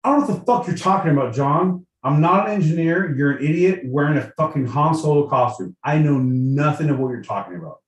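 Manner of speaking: irritated, fast-starting rant; exasperated. Real, not acted. Co-host berates John over the echo problem, exasperated.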